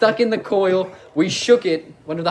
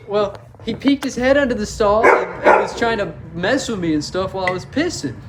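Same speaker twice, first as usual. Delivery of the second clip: higher-pitched mock-innocent explanation; playing innocent; 4 semitones higher, 3 dB louder than usual. Student excusing himself to the principal, playing innocent. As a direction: plead your case like a wronged kid. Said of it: "I played the innocent card".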